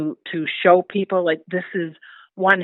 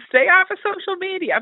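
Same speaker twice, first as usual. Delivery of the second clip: stern warning; 12 semitones higher than usual. Retold or imitated. Warning granddaughter off social media.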